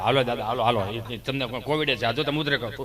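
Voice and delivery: low, bossy hospital helper; compounder's voice. Retold or imitated. Compounder hustles the old man into the ward, low and bossy.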